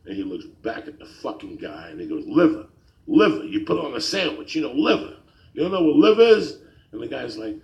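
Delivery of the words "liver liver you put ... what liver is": mock exasperation, pushing each phrase; exasperated customer. Old man repeating his sandwich order to the clerk, exasperated. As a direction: imitate an old customer losing patience, loud and high. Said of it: "his face getting red".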